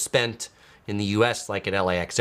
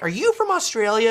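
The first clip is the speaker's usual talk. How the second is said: curious question; 11 semitones higher than usual. Retold or imitated. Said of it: "I'm like".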